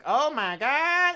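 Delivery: high, slow, shocked; horrified gasp. Retold or imitated. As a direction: recoil at what she sees. Queen sees hand aging.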